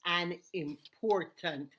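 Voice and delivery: slow, deliberate radio narration with spaced-out phrases; measured storytelling for radio listeners; history reading. Acted. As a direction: read out a history snippet slowly, pausing between phrases. Reads a history snippet.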